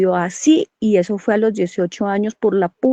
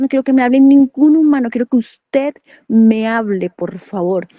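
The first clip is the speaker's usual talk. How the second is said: louder, insistent retold plea, slowing at the end; súplica insistente; 4 dB louder than usual. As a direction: plead firmly, building on each phrase. Retelling her insistent plea to God. (súplica insistente, con más fuerza)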